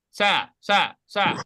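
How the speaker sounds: mock mistaken sa for te; sloppy sa, the mistake to avoid; wrong te as sa. Shown as a demonstration.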